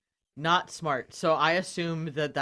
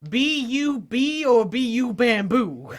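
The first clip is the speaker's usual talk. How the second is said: grand mock formal voice; 7 semitones higher, 7 dB louder, much slower than usual. Player voices character.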